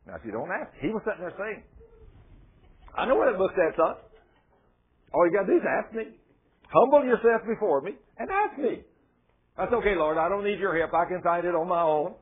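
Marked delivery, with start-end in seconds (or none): 3.0-8.8 voice of God. Acted. Preacher voices God speaking. 9.6-12.2 stubborn self. Acted. Stubborn self answering God.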